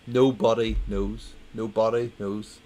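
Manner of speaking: slow, deliberate "Nobody knows"; repeating the punchline for laughs; mock emphatic punchline. Shown as a demonstration. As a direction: drag out "Nobody". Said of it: "put the emphasis on the joke".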